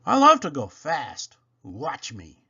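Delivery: little engine showing off; eager little engine. Acted. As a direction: show off to the teacher. Toodle boasts.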